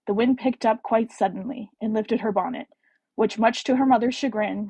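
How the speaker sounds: put-on tentative British accent, storybook reading. Reading Penelope's prologue to listeners in an attempted British accent. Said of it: "I can't do the accent".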